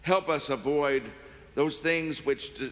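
reverent, measured prayer. Acted. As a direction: pray it earnestly and steadily. Offertory prayer after announcements.

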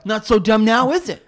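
loud cocky football jock; jock bragging. Retold or imitated. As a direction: brag like a meathead jock. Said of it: "all the kids on the football team would be like".

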